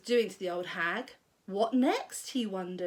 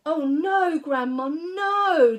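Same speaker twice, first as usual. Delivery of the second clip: put-on louder, higher pleading boy; calling back; 5 semitones higher, 7 dB louder, slower than usual. A narrator's reading. George calling back to Grandma. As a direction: call back in alarm. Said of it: "George called back".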